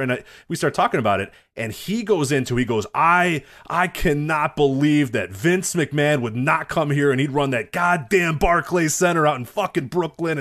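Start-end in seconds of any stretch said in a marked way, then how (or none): 2.9-10.4 slow, emphatic mock indignation; leaning on each word like an outraged fan; retold rant. Co-host retelling an usher's rant about Brooklyn, indignant. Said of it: "he was ranting and raving".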